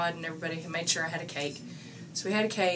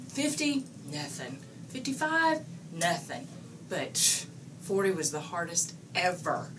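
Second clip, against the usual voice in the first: quoted boss. Retold or imitated. Boss voiced listing ages.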